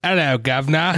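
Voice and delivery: put-on English accent. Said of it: "an English accent".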